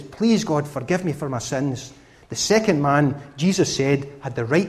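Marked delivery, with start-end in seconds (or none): 0.0-1.9 a touch of a humbled sinner begging God; humble plea. Acted. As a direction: lower and softer pleading prayer. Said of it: "And his face to the ground".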